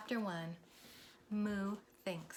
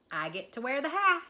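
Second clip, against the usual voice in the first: higher, louder, eager; eager Minnie; 6 semitones higher, 6 dB louder than usual. Acted. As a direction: claim the hat eagerly. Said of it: "said Minnie".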